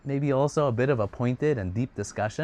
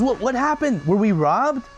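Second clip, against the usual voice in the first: mock surprise; 10 semitones higher, 4 dB louder than usual. Son feigns shock.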